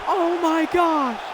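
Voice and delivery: slow, high, repeated gasps of disbelief; stunned disbelief. Real, not acted. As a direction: drag each one out in shock. Stunned by the fast knockout.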